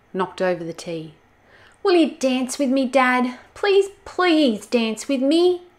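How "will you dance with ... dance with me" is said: high, whiny drawn-out begging; whiny pleading. Acted. Olga begging her dad to dance, high whiny plea. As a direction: plead like a pushy child bird.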